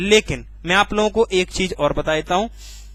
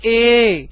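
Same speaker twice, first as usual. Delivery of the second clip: ए stretched long and pushed louder; drawn-out letter; 3 semitones higher, 4 dB louder than usual. Shown as a demonstration. Teacher showing stress on one letter, ए stretched. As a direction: hold ए long with force. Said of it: "खींच दिया".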